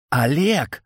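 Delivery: alarmed exclamation; exclaiming. A narrator's reading. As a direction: cry out to stop Oleg. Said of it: "воскликнула Небесная".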